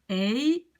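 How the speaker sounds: "ei" as one gliding double vowel; diphthong demo. Shown as a demonstration. Teacher shows learners a vowel with two sounds, diphthong demo. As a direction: glide through two sounds in "ei". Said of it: "on prononce ça comme ei".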